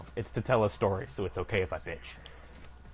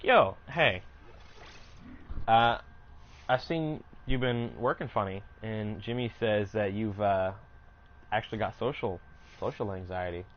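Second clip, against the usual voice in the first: put-on Puerto Rican accent. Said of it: "very thick ... accent".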